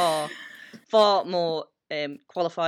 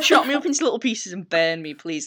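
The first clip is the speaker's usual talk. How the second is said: laughing; 5 dB louder than usual. Real, not acted. Joking with co-host about how to be stopped, laughing. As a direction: blurt it out while cracking up.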